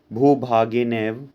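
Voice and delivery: slow, spelled-out भूभागेनैव with a rising end; slowly sounding out भूभागेनैव for students; syllable by syllable. Shown as a demonstration. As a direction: split भूभागेनैव into its parts, slowly. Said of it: "भूभागेन धन एव".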